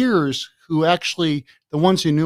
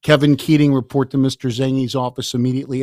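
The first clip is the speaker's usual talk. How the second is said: slightly louder, announcing over the school PA; over the loudspeaker; 5 dB louder than usual. Retold or imitated. Vice principal announcing over the loudspeaker, formal PA call. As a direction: call the boy's name like a PA announcement. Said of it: "he never got on the loudspeaker".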